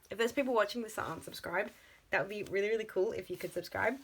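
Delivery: ordinary talk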